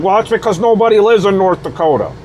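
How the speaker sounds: fast, sneering voice for the critics; mocking the critics. A vlogger mocking critics with a fast sneer. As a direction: sneer it out like a know-it-all. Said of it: "a lot of ignorant motherfuckers would be like".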